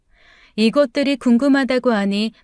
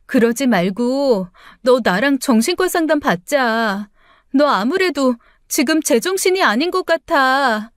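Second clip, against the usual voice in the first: put-on a touch higher, coaxing older sister-in-law; lightly voiced sister-in-law; 3 semitones higher than usual. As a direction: soothe her, feigning concern, slightly higher. (살짝 높게 달래는 형님 목소리)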